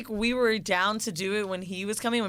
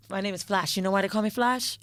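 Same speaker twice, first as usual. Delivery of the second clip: put-on Jamaican accent. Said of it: "she got these accents down pat".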